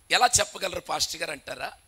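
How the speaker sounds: ordinary delivery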